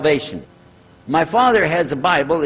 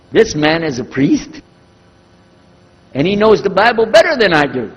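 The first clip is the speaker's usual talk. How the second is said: astonished; 2 semitones higher, 4 dB louder than usual. Retold or imitated. Astonished at the priest's revelation.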